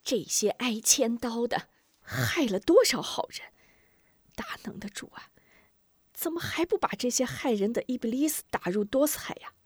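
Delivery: bitter curse through clenched teeth; contained rage sinking into hushed prayer; seething anger. Acted. Mother curses the poisoners, seething with held-in anger. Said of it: "直气得咬牙切齿".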